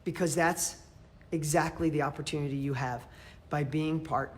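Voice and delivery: breathless, gasping between words; winded from talking fast; out of breath. Real, not acted. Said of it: "I'm out of breath".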